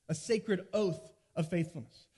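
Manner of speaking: deliberate teacher's repeat with "oath" stressed; slow, weighted repeat. Shown as a demonstration. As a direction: say "A sacred oath of faithfulness" slowly, leaning on "oath". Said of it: "but here's one".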